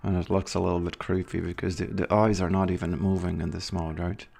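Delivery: words squeezed through clenched teeth; talking through teeth. Shown as a demonstration. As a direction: speak without opening the jaw. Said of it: "I can actually do something like this".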